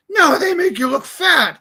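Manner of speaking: mock a tactless friend; blunt friend. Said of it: "And you go".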